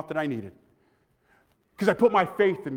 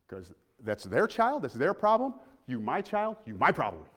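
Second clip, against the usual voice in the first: mom's voice; 7 semitones lower, 8 dB quieter than usual. Retold or imitated. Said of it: "So she would say".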